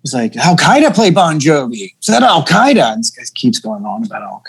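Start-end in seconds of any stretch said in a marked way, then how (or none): 0.4-2.9 higher-pitched imitation of a heckler; retold taunt, pitch jumping up on the name; mock heckling. Comic retelling a bar guy's taunt to friends, mock heckling.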